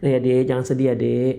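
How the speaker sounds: mildly tender reassurance; understated, kindly coaxing; gentle soothing. Acted. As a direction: play a husband comforting his sad wife. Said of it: "tenangkanlah dia".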